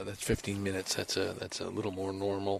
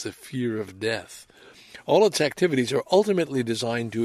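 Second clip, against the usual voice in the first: measured, earnest passage reading; reading aloud; 4 dB louder than usual. Acted. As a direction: read it like a quoted text. Reads a spiritual passage aloud.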